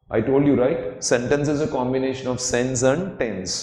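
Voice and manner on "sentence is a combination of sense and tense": very slow, every word spaced; slow teacher definition; slow explanatory English. Shown as a demonstration. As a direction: spell out the definition slowly. Teacher slows for English line.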